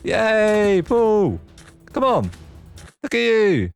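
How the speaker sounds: high, lively cheering for a pet; excited cheer. Real, not acted. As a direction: cheer him on like a proud owner. Cheering a mob into its pen.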